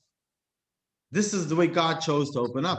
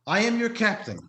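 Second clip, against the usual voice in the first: imitating captain; 6 semitones higher than usual. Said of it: "Never does he get on and say".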